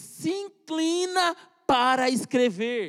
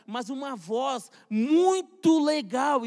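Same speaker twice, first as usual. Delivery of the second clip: awed slow telling; 3 semitones higher, 4 dB louder, much slower than usual. Retold or imitated. Retells heavenly voice, awed.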